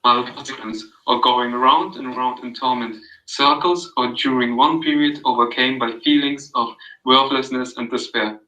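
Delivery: calm, even read-aloud of a passage; soothing reading. Acted. Reading Carl Rogers to a friend, soothing read-aloud. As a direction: read it gently, like an audio book. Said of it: "It was so soothing".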